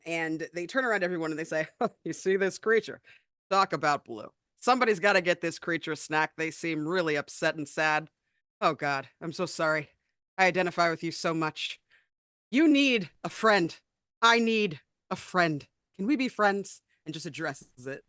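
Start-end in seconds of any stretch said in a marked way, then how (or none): 2.0-11.8 Kronk impression. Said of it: "you're doing a Kronk impression". 12.5-15.6 slow, louder heartfelt Kronk plea; overly earnest dopey friendliness, drawn out; Kronk impression. Player as Cheeks pleading with the creature, slow dopey sincere plea. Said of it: "you're doing a Kronk impression". 16.0-16.8 Kronk impression. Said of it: "you're doing a Kronk impression".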